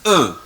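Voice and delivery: E as a schwa, like "uh"; French E sound. Shown as a demonstration. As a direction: say E as a short French "uh". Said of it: "what is the pronunciation of E".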